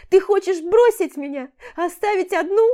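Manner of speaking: громко и высоко, в панике; бросить обвинение сквозь истерику; отчаянный упрёк. A narrator's reading. (Аля в истерике боится, что её бросят)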